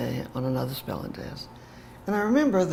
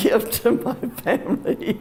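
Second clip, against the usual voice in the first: choked up; 8 semitones higher, slower than usual. Real, not acted. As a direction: voice rising high with emotion. Voice catches on family memory.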